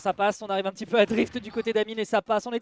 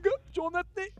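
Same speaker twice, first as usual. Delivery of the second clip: higher, airless redo; redo, holding breath; 8 semitones higher, 5 dB quieter than usual. Shown as a demonstration. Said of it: "Attends, je vais la refaire". (comme en apnée, souffle retenu)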